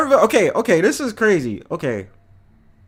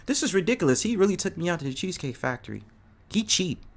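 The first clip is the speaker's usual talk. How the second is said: mocking complainer; 7 dB quieter, faster than usual. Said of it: "be like".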